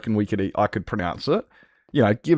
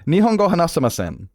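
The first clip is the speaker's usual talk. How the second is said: higher-pitched, assured Japanese phrase; confident Japanese; 6 semitones higher than usual. Shown as a demonstration. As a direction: deliver the Japanese line with confidence. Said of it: "I can say with absolute confidence".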